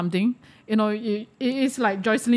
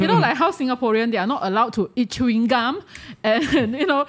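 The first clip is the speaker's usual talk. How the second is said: 1 laughing; 3 semitones higher, faster than usual. Real, not acted. Laughing while mocking Singaporeans.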